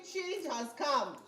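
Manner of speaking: slow, stressed call for the crowd to echo; slow call to repeat. Shown as a demonstration. Speaker leads audience in a call-and-response, slow and stressed. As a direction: lead the chant, stressing change.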